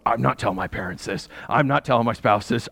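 lightly acted low inner voice; private resolve. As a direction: resolve to keep it to yourself, pitched low. Acting out private resolve to keep secret.

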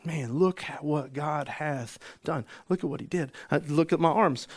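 acting out wonder at a healing; amazed testimony. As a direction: show everyone, in mild astonishment. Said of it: "and this is the language".

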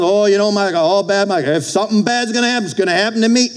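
high-pitched mock complaining; mock self-pity. Preacher mimics people expecting bad luck, mock woe. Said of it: "Don't walk around".

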